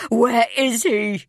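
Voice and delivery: a mother screaming for her missing son; desperate furious shout. Acted. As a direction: yell it high and loud, slow and pleading. Lunging at captor, grabbing collar.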